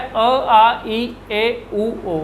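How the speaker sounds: अ, आ, ई, ए, उ, ओ named one after another; teacher reciting the vowels; vowel drill. Shown as a demonstration. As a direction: list the vowels clearly. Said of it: "अब इनमें क्या है".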